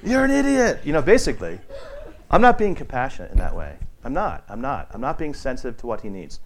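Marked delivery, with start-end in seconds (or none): 0.0-0.8 high, loud, laughing you're an idiot; laughing mock insult. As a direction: tease through laughter. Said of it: "He's like".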